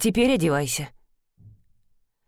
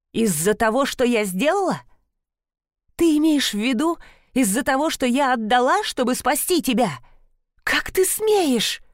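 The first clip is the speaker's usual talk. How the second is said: rising to an outraged, higher cry; losing her calm; 4 semitones higher than usual. A narrator's reading. Di, wounded by Gabby's words, answers with rising outrage. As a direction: let the hurt boil over into outrage. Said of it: "Не в силах сохранять спокойный тон".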